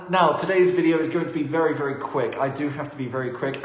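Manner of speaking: talking through a face mask; muffled by a mask. Real, not acted. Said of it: "excuse the mask".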